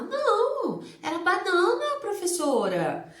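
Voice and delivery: put-on high, loud little child's voice; child answering. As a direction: sound like a small pupil correcting herself. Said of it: "Aí ela vai falar". (criança respondendo com voz aguda e alta à professora)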